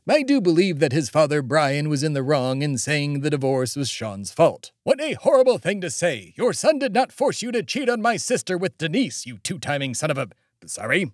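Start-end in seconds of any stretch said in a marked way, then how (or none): 6.4-10.3 carried away. Acted. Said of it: "I just got a bit carried away".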